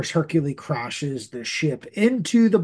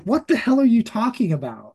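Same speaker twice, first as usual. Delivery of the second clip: Rocket yelling; 6 semitones higher, faster than usual. Retold or imitated. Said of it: "He's like".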